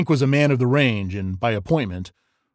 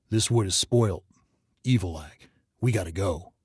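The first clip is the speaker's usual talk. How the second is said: controlled terror; 2 semitones lower than usual. Acted. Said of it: "the boy spoke more slowly".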